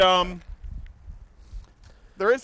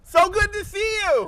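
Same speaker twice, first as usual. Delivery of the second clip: loud host yell; 10 semitones higher, 3 dB louder, slower than usual. Acted. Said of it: "I don't know why I'm yelling".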